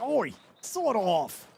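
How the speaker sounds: slow, drawn-out mock call; calling out to NPC. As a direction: stretch it out like hailing a stranger. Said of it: "You'd be like".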